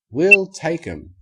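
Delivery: put-on children grabbing a bargain; eager yes. A narrator's reading. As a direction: jump at the deal. Fillies jump at deal.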